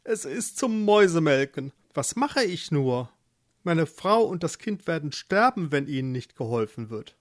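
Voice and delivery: understated despair; despairing husband. Acted. Eduard fears for wife and child, mildly despairing. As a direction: lament with mild helplessness. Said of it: "Eduard war ganz verzweifelt".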